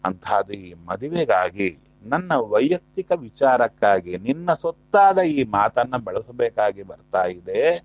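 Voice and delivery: voiced prayer of apology to the Lord; acted prayer. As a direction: plead with God as a praying devotee. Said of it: "ಅಂತ ಪ್ರಾರ್ಥನೆ ಮಾಡಿಕೊಂಡು".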